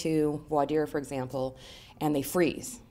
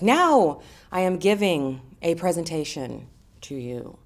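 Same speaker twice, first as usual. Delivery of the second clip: mock presenter, loud and slow, falling away at the end; speechy voice; 5 dB louder, slower than usual. Shown as a demonstration. Coach mimicking someone starting a presentation, speechy voice. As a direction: stiffly announce it word by word, like a formal speech. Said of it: "Speechy voice".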